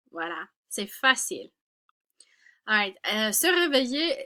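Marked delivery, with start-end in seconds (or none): 0.1-1.5 whispered aside. Real, not acted. Teacher whispering to her class that it is easy. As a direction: breathe it like a secret.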